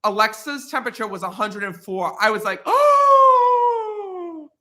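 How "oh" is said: high, loud shocked oh; shocked gasp oh. Retold or imitated. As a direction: gasp it out in alarm. Shocked at 104 fever.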